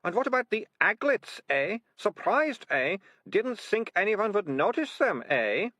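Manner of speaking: high, loud accusing snap; snapping. A narrator's reading. Militia accusing the ratcatchers, loud and high. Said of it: "snapped Militia".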